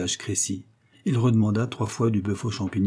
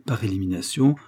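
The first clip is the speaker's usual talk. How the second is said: higher, emphatic triumphant lecturing; pompous amateur detective; 4 semitones higher than usual. Acted. Coquille overwhelms his friend with his reasoning, smug and emphatic. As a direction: crush the listener with superior logic.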